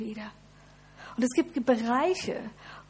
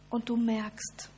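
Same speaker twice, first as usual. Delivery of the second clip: intimate near-whisper; slower than usual. Real, not acted. Pastor invites listeners softly.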